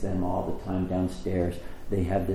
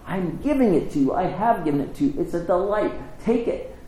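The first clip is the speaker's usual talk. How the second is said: higher, building plea as God's voice; acted heartfelt offer, rising toward the end; earnest urging; 5 semitones higher than usual. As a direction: press the gift on the listener. Voices God urgently offering forgiveness.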